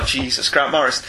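a hint of weary groan at Grant Morrison; mock exasperated sigh. Host imitating listeners fed up with Grant Morrison, mock weary. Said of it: "segment of the listening population that are".

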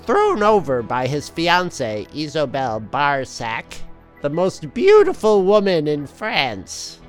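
dramatic comic narrator; story narration. A narrator's reading.

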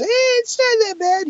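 slow, drawn-out falsetto excuse; comically high, unconvincing reassurance. Shown as a demonstration. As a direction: stretch it out in a very high voice. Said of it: "your voice gets higher pitched as you try to".

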